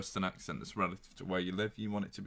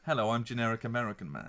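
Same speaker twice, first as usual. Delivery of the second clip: lightly put-on American man; generic American accent. Demonstrating a generic film American, mock American accent. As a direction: parody a nondescript American accent. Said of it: "With high-pitched voice".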